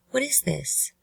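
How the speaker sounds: high-pitched, puzzled question; confused question. Shown as a demonstration. Narrator showing how inflection changes meaning, confused. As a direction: ask it baffled, pitch jumping up high. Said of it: "you can tell I sound confused".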